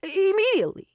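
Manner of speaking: hissed urgent demand; urgent whisper. Acted. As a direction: press it through teeth, urgent. Impatient man demands now.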